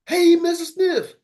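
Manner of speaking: a high, slow, stretched-out "Hey, Mister Smith"; mock cold call in a squeaky high voice; high voice try. Shown as a demonstration. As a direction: go way up high and drag it out. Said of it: "you start changing up".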